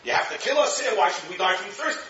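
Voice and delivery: hammed-up high complaint; mock screaming. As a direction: imitate a thirsty crowd yelling. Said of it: "They're screaming".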